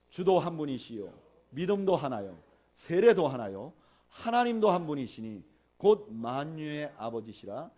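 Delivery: slow, measured congregational recitation; deliberate, evenly phrased Bible reading; leading scripture reading. Shown as a demonstration. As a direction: read the verse aloud for all to join. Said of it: "우리 한번 읽어볼까요?".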